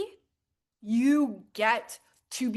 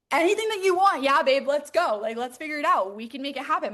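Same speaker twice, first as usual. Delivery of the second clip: higher, louder cheerleading burst; hyped encouragement; 3 semitones higher, 4 dB louder than usual. Retold or imitated. Cheering on a friend's wish, hyped encouragement. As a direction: fire up a friend's dream. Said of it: "I'm like".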